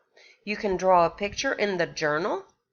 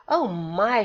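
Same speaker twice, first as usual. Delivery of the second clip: exclaimed. Acted. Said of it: "she exclaimed".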